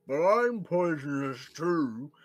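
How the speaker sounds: slow, loud creature with mouth full. Acted. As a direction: protest through a crammed mouth. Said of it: "tries to talk with its mouth full".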